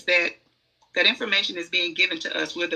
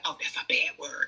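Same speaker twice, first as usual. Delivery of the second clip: mock prim; 5 semitones lower, 6 dB quieter than usual. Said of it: "We made those words sound like".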